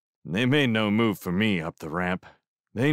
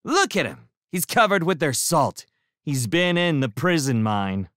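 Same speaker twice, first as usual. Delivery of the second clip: scornful scold; 7 semitones higher, 4 dB louder than usual. A narrator's reading. Shrimp keeps scolding.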